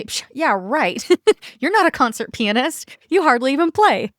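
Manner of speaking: sarcastic, dismissive inner voice; eye-rolling scoff. Retold or imitated. Coach voicing her sceptical brain, mock sarcastic. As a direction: scoff like you don't buy it. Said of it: "my brain is going to roll its eyes at me and say".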